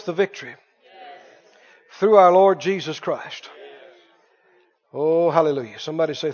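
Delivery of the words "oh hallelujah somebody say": usual speaking voice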